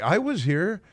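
lightly voiced indignant old woman; mock indignant senator. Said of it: "she's like".

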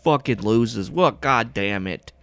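high, loud, cranky griping; exasperated, drawn-out complaining at full volume; irritated outburst. Acted. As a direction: bellow at unwelcome visitors. Jake angry at intruders.

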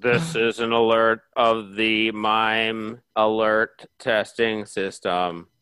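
slow, low, loud alert broadcast; emergency alert. Acted. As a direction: read like a siren warning.

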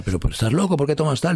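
mildly acted reproach down the phone; scolding ex-wife. Voicing ex-wife's scolding.

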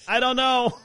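high-pitched retold shrug; mock cluelessness. Sheepish son answering his father.

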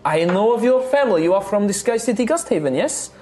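high, friendly tavern hostess; bubbly innkeeper charming her guests; cheerful halfling innkeeper. Acted. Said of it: "she's just like".

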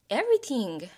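"everything" with a plain T for the TH; no TH sound. Retold or imitated. Daughter quoting her French Canadian mom, "everything" with T for TH. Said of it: "my mom doesn't do the T H".

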